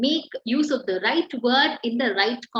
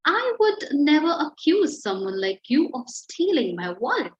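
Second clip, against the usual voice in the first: sarcastic. Shown as a demonstration. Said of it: "smirked as she said".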